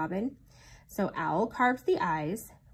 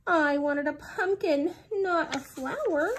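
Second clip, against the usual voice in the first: sad; 8 semitones higher, 4 dB louder than usual. A narrator's reading. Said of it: "said Pooh sadly".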